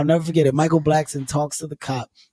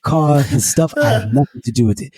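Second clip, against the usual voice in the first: imitating African-accented protest; mock African-accented denial; 5 dB louder than usual. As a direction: disown it in a put-on African accent. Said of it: "He put the accent on".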